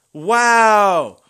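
loud, high, disgusted wow; real disgusted outburst; loud sarcastic wow. Real, not acted. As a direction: shout it out in disbelief. Disappointed by the summon.

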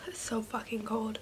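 hushed whisper. Real, not acted. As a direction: whisper it through the cold. Cold mask on face.

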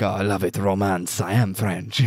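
lightly put-on French accent; a hint of a mock French accent. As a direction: imitate a French romantic, lightly. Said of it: "You remember that French guy".

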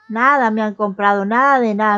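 exasperated vendor complaint; loud complaint. Real, not acted. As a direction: protest loudly that no one bought anything. Complaining nobody bought.

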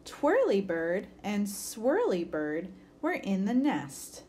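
put-on lively picture-book read-aloud for kids; story reading. A narrator's reading. Teacher reading a bird story to children, lively. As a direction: read it like story time for a class.

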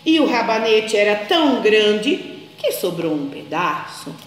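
put-on lively storybook reading for small children; story narration. A narrator's reading. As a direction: tell it like a bedtime tale, animated.

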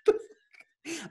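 slow, high, stunned what the fuck; drawn-out disbelief; baffled. Retold or imitated. Pupil stunned by teacher's order.

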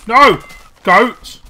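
startled shout; loud cry. Real, not acted. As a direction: yell out in alarm. Goat appears unexpectedly.

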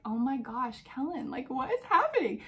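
disbelief climbing to a squeal; incredulous. Retold or imitated. Wife reacting to husband's jokes.

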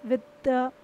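it goes with the, very drawn out; slow example. Shown as a demonstration. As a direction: draw each word out. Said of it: "जैसे बोलते हैं ना". (बहुत धीमे)

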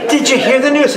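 put-on high loud old-lady call, laughing. An old woman at a wake booming gossip, laughing. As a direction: boom it like a deaf old woman. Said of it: "you speak louder".

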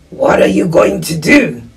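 put-on voice of a helpful wolf. Wolf reassuring a lost little one, creature voice. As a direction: play the wolf talking to a child.

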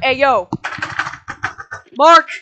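high shouted calls of a name; calling out loud. Retold or imitated. Spookum yelling up at Mark from outside. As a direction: yell the name up at a window.

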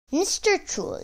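high-pitched, slightly timid goat; shaken little goat. A narrator's reading. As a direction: address the troll in a small high voice. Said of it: "terribly shaken by this, but he steadied himself".

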